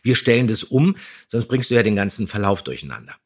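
usual speaking voice

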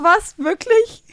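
high, loud disbelief; shocked young guy. Retold or imitated. Mimicking the rejected cyclist, high and loud shock. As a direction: squeak it out like a stunned boy. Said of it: "Er so".

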